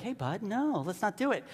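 mild, easygoing discouragement; gentle. Acted. Peter pulls Jesus aside as a friend, gently. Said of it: "doesn't just gently be like".

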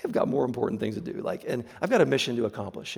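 quick, laughing brush-off; mock impatient dismissal. Preacher imagining an impatient Jesus leaving, fast and laughing. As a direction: rattle it off like someone too busy. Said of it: "Can you imagine, like".

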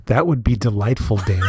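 measured mock public-radio host; NPR host bit. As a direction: play the composed public radio presenter. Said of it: "keep up the N P R bit".

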